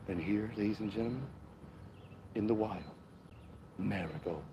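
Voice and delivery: hushed golf-commentary delivery; mock golf announcer, slow and hushed; golf commentator voice. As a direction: narrate the flowers like a quiet golf broadcast. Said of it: "my golf commentating voice".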